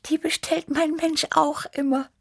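high, purring little cat voice; purring Tibi. A narrator's reading. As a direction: purr it like a sweet young cat. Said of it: "schnurrte Tibi".

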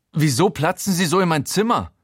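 outraged, calling out at him; indignant shout. Acted. Narrator outraged at Showalter barging in, indignant. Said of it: "rufe ich aufgebracht".

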